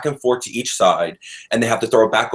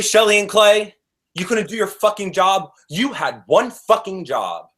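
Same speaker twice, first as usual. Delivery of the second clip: grouchy rant; 5 semitones higher than usual. Real, not acted. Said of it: "I thought I was gonna be the grouchy one".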